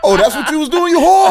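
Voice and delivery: high-pitched laughing accusation; laughing mock outrage. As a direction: squeal it through laughter.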